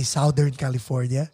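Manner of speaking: put-on thick Filipino accent on "Southern California". Caller at work saying "Southern California", thick Filipino accent. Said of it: "thick accent, baby".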